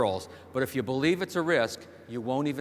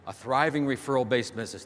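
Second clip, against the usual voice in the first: "thriving" emphasized as the key word; stress on THRIVING. Real, not acted. Speaker restating the goal to the audience, stress on "thriving". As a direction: repeat the phrase, weighting "thriving". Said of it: "Emphasis on the word thriving".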